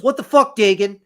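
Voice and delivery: high, loud disbelieving shout; shocked yell. Retold or imitated. Bar patron yells at the beaten narrator on the ground.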